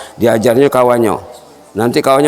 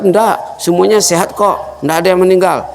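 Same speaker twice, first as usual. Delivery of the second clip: voiced host; 6 semitones higher than usual. Host answers the visiting friend.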